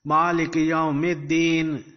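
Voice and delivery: quick, joined-up recitation; fluent recitation. Shown as a demonstration. Teacher shows how to pronounce it, fluently. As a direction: run the words together smoothly.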